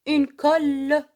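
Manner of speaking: colle loud with the ll held long; stress on colle. Shown as a demonstration. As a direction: lean hard on the double l in colle. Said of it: "Vous voyez, deux L". (تشديد اللام في colle بصوت عال)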